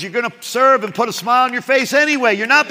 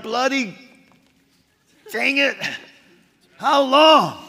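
higher, exasperated outburst; mad at God; 4 semitones higher than usual. Retold or imitated. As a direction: blurt it out as an annoyed, fed-up David. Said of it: "He's mad".

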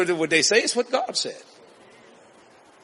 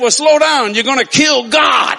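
trooper warning; 5 semitones higher, 7 dB louder than usual. Retold or imitated. Trooper scolds preacher.

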